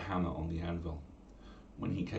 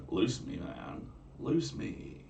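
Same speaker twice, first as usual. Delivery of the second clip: put-on Valley Girl accent; 2 semitones higher, much slower than usual. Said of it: "Valley Girl accent for the girl".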